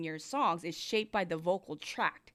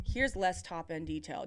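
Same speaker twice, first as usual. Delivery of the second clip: muffled demo; 5 semitones lower than usual. Shown as a demonstration. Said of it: "do you hear the less".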